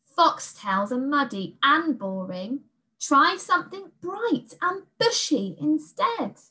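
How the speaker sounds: put-on rising high girl's voice; persuasive girl. A narrator's reading. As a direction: sell the beast something shinier.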